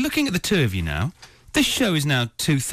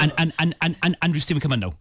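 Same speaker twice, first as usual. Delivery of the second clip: quick Southern Irish stammer on the first word; rapid mock-Irish stutter, then a rush of words; stuttering Irish accent. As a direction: imitate an Irish dad stuttering as he calls out. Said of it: "That's a Southern Irish accent with a stutter".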